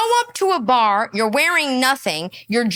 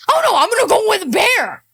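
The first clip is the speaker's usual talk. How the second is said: higher, louder airhead voice mocking the women; lightly voiced ditzy girl choosing the bear; mock naive woman; 7 semitones higher, 4 dB louder than usual. Mocking women who pick the bear, in a lightly voiced ditzy tone.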